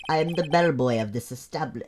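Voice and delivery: attempted French bellboy accent. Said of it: "I'm gonna make him French".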